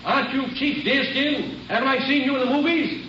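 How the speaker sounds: a hint of an eager, star-struck desk clerk; hotel clerk. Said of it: "The clerk looked at him for a minute and said".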